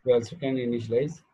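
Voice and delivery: slow dictation with long pauses for students to write. Real, not acted. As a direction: read each phrase slowly for note-taking. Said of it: "चला लिहून काढा". (सावकाश लिहून घेण्यासाठी सांगणे)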